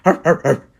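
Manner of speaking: mock barking. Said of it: "just me barking".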